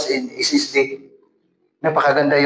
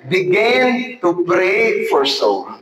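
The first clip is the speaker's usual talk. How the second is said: laughing repeat; much slower than usual. Shown as a demonstration. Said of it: "Ano muna natin gagawin?".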